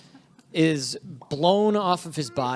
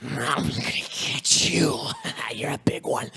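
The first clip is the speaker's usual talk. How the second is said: slow, whispery thug voice; dying thug; 3 semitones lower, slower than usual. Acted. Game master voices the dying thug to the player, slow and whispery. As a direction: rasp it out slowly, half whispered. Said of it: "he makes eye contact with you and he says".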